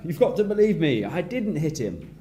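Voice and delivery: put-on a kid begging to be believed; pleading brother. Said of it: "one brother is explaining".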